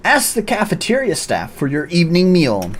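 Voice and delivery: a lightly voiced barking commander addressing recruits; gruff drill commander. Commander welcoming new recruits, lightly gruff. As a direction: play it as a bossy cat commander.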